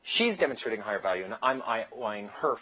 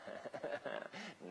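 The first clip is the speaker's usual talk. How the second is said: brief dismissive laugh, much softer; mock chuckle; 2 semitones higher, 16 dB quieter than usual. Coach acting his reply to her question, soft mock chuckle.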